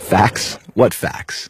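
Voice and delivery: breathy, soft scoff with a laugh; scoffing disbelief. Acted. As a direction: laugh it off under your breath. Skeptic scoffs at claimed facts.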